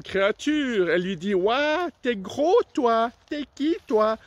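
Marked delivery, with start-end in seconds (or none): 1.3-4.2 higher, amazed frog voice. Acted. Frog amazed by the big rhino, higher voice. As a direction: gape at the huge rhino.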